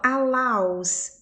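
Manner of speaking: slow "allows" said "a-LAUS", with an A sound; "allows" drawn out, open A in the diphthong; middle A sound. Shown as a demonstration. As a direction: model "allows" with "ow" as in now. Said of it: "esse meio aqui tem som de A".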